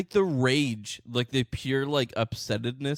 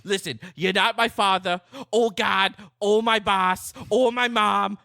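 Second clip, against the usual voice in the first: higher-pitched, louder indignant parody; mock ranting short man; 4 semitones higher, 4 dB louder than usual. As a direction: ham up the furious little man's outrage.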